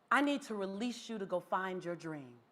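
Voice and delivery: soft, low supervisor voice; gentle dismissal. Retold or imitated. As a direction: let them go gently, voice dropped.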